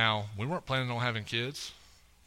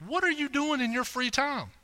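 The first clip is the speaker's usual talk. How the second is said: teasing question; 12 semitones higher than usual. Retold or imitated. Teasing wife about her bites.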